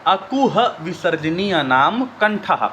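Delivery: slow sutra recitation. Shown as a demonstration. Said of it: "तो अब इसमें क्या हो गया?".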